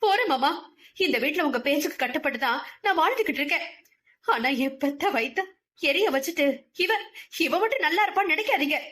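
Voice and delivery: heated rushing defiance; fierce outburst. Acted. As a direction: pour out a mother's fury. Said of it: "ஆவேசமாக கூறிவிட்டு".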